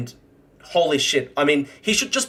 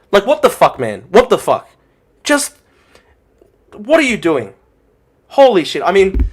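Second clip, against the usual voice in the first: loud, higher, exasperated yelling; real angry outburst; 6 semitones higher, 8 dB louder than usual. Real, not acted. Streamer raging at pundits defending atrocities, loud exasperated yelling. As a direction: explode in disbelief at the stream. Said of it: "I'm getting angry".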